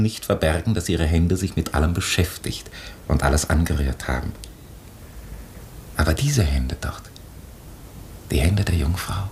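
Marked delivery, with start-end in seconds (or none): 6.0-9.3 soft awed whisper at the painting; hushed whisper. Acted. Chaplain pointing out the Virgin's hands to Fräulein Linek, whispering. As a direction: breathe the words out, unvoiced and reverent.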